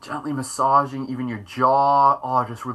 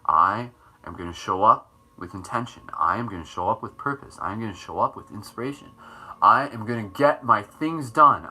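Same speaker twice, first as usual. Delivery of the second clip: measured, lower mantra delivery; affirmations; 4 semitones lower than usual. Shown as a demonstration. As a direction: intone each affirmation with deliberate emphasis. Speaks affirmations aloud as mantras.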